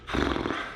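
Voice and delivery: heavy winded exhale; breathless sigh. Real, not acted. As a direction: blow out a tired breath. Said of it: "out of breath".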